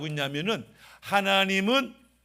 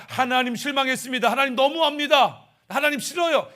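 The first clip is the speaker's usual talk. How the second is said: acted complaint; 5 semitones higher, 4 dB louder than usual. Voicing a disappointed complaint to God.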